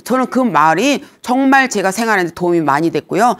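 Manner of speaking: ordinary delivery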